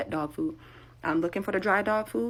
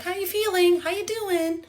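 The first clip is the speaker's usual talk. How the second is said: much higher cooing voice; baby talk to animals; 13 semitones higher, slower than usual. Retold or imitated. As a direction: coo at the farm animals. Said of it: "I speak to animals".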